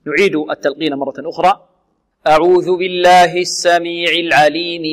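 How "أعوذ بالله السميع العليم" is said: measured tajweed chant; Quran recitation. Acted. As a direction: recite slowly with a long held last vowel. Recites the opening formula.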